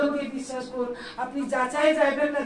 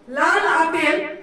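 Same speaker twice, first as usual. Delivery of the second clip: slow drawn-out phrase; 2 semitones higher, 6 dB louder, much slower than usual. Shown as a demonstration. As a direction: stretch লাল আপেল slowly and loudly. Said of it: "সেটা মন দিয়ে শোনো।".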